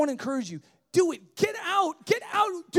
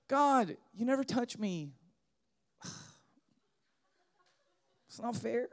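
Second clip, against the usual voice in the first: whiny complaint; 7 semitones lower, 10 dB quieter than usual. Pretend. Whiny churchgoer complaining to God.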